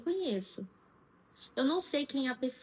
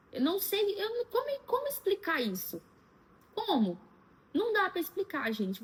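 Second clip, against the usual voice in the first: at a loss; 8 semitones higher than usual. Real, not acted. Struggles to explain her ordeal.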